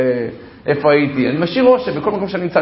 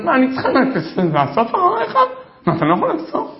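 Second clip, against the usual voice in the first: higher, scolding wife's voice; wife complaining; 11 semitones higher, 3 dB louder than usual. Retold or imitated. Wife scolds husband over mess, high mock complaint. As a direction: mimic the wife nagging him to pick up.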